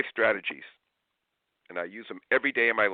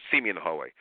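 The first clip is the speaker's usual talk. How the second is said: 1 curt command; 3 semitones lower, faster than usual. Shown as a demonstration.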